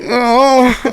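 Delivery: high laughing anime gasp; anime protagonist voice. Acted. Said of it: "anime protagonist voice".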